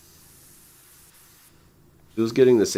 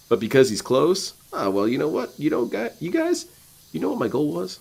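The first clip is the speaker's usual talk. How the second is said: high, whiny mock of the streamer; lightly lampoon his fake surprise; mocking DSP; 6 semitones higher than usual. Mocking the streamer's goal talk to chat, high whiny voice. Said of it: "D S P has told us that his goal".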